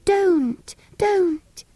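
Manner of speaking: high, urgent pleading don't; begging him to stop. Acted. Anthea pleading with brother.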